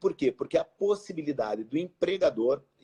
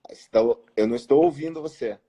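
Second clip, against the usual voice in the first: to someone hard of hearing; 8 dB louder than usual. Real, not acted. Audio failing, speaking up to listener.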